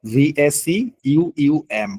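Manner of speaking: ভিএসি ইউইউএম spelled very slowly, letter by letter; very slow teacher dictation of ভিএসি ইউইউএম; slow spelling. Shown as a demonstration.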